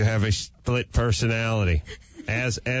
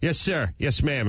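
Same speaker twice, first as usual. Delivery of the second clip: higher, crisp yes sir; crisp military reply; 4 semitones higher than usual. Retold or imitated. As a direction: snap it like a soldier. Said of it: "they go".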